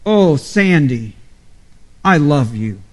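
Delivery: an intimate plea to his wife. Shown as a demonstration. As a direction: linger on the Oh, then say it lovingly. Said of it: "make my declaration of love a little more fervent".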